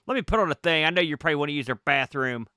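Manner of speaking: a hint of a chatty local, apologetic then inviting; fussing over manners, then slyly inviting; lightly voiced Boston guy. GM as the Boston man inviting the player over, lightly voiced. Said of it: "he looks down and goes".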